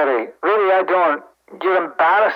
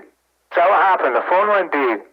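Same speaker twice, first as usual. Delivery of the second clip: low, sceptical Scottish retort; sceptical echo; 3 semitones lower than usual. Acted. Sceptically echoing Jerry's excuse.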